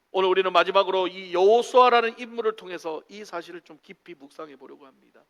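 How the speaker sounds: ordinary talk, nothing marked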